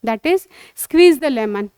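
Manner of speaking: slow, clear, drawn-out English model phrase; slow teaching model. Shown as a demonstration. Teacher slowly modelling phrase for a child. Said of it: "अलग word है बेटा".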